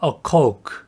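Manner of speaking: a coke said as a quick "코우크", with no vowel after the k; correct pronunciation. Shown as a demonstration. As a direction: clip a coke short, quick "kouk". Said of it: "라고 발음하셔야 돼요". (바른 발음 "a coke"를 짧고 빠르게 "코우크")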